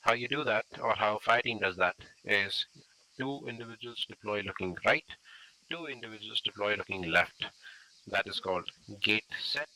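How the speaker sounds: loud voice carried across a road; projecting voice. Real, not acted. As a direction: project to the team on the far side.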